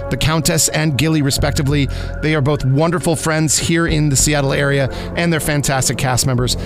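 normal talking voice

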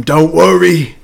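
hammed-up battlefield speech, climbing very high to a long wail; mock-heroic cry. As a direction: comfort a dying comrade with overblown, rising melodrama. Mock war speech to dying comrade.

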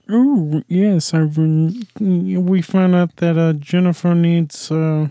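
mock German official; German auditor voice. Hero posing as German auditor, light German accent. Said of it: "comes in as a German auditor".

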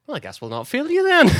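imitating the mechanic. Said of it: "And then he went".

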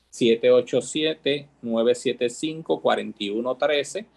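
slow, spaced-out phone number; slow dictation. Shown as a demonstration. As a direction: dictate each digit slowly and clearly.

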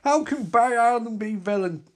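baffled, rising disbelief; stunned hero protesting; shocked hero. Acted. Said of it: "As Barry's like".

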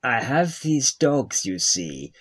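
lightly put-on foreign scientist voice; comic character voice. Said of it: "That's the new character I'm working on".

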